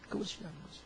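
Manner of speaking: hushed, breathy whisper of the point. Real, not acted. Preacher whispering trust in God to the congregation. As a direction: drop to a whisper to let it sink in.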